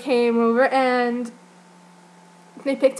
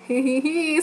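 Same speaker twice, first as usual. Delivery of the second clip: a light, teasing imitation of his flirty giggle; mock flirty giggle; 4 semitones higher than usual. Retelling how he flirted with her mid-answer, mock flirty giggle. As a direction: giggle it coyly, lightly mimicking him. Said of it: "like, flirtatiously".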